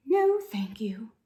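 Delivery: slow whispered reply; sad quiet voice. Acted. Head librarian answering McBee in a sad whisper. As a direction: barely breathe the words, sadly. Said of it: "Her voice was very quiet".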